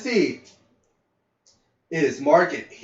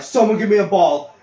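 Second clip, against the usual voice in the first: demanding; 5 semitones higher, 8 dB louder than usual. Retold or imitated. Angry kid demanding a ball.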